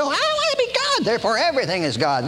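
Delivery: high start, then a rush; a hint of proud defiance; mock arrogant man. Preacher voicing proud man wanting to be God, mildly mocking. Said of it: "he wants to run his own show".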